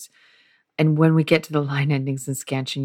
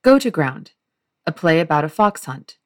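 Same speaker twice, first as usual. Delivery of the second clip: a touch louder, announcing the title to the audience; Oliver's opening; 4 dB louder than usual. Acted. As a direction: open the soliloquy like a showman presenting his play. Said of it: "I will be reading it in prose".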